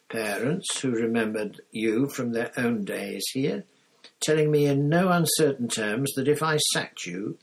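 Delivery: lightly voiced old headmaster; kindly old wizard, gently chiding; a hint of a wise old headmaster; Dumbledore. Dumbledore reassuring Hagrid.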